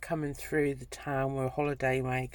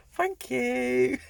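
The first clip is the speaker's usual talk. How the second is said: laughing thanks; 9 semitones higher, 5 dB louder than usual. Retold or imitated. Embarrassed reply through laughter.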